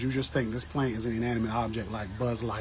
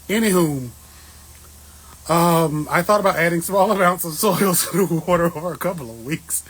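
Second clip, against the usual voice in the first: still laughing; 5 semitones higher, 8 dB louder than usual. Real, not acted. Recovering from laughter.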